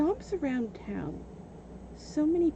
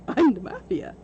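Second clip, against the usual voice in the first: mock mafia boast; 6 dB louder than usual. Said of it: "he did it to me".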